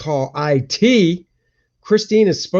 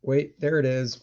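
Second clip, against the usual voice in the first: softer "there it is", almost to himself; quiet double take; 6 dB quieter than usual. Real, not acted. Streamer rechecking his camera, quiet muttered confirmation. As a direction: say it under your breath, confirming.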